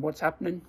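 "What's happening" with "happening" cut to "happ'nin"; combined, casual Australian. Shown as a demonstration. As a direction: run "What's happening" together, dropping the final g. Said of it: "También con".

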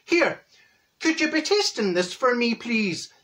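polite request in a mock Irish accent; lilting put-on Irish voice. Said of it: "He's Irish".

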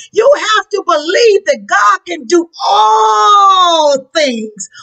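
fervent shouted preaching, voice cracking; rising sermon climax; preaching at full force. Acted. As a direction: drive it home to the congregation.

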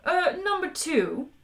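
tentatively interrupt, drawn out; slow, polite hesitation; soft, hesitant interjection. A narrator's reading. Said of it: "said the captain softly".

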